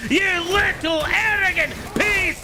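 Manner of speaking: high, shouted mock-Irish tirade; put-on Irish accent. Gamer raging at a fleeing enemy, shouted mock-Irish accent. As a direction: roar insults in a hammed-up Irish accent. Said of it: "I don't know why we've gone Irish".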